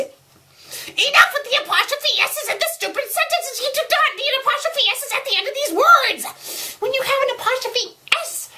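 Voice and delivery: very high, squawking, rapid tirade; exasperated rant. Real, not acted. Reader fed up with stray apostrophes, exasperated high-pitched rant. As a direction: blow up at the writer in a high voice. Ranting at the writer about apostrophes.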